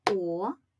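"О-дяг" split into two separate syllables, О, then дяг; clap-out syllables: О, long pause, дяг. Shown as a demonstration. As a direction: break "О-дяг" into drawn-out beats with a gap. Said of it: "Вимовимо його".

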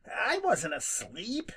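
slow, high, cross denial; cross protest. Acted. Rabbit denying to Jimmy he was asleep, cross. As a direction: protest it, a little hurt. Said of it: "protested Peter crossly".

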